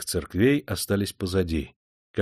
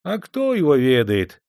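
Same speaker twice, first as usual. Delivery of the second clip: bored; 5 semitones higher, 4 dB louder than usual. Acted. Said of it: "скучающе отозвался мужичонка".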